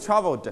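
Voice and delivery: Traveled said clearly with the final d sounded; crisp model of Traveled; model pronunciation. Shown as a demonstration. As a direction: articulate Traveled for the class to echo. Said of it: "Repeat after me".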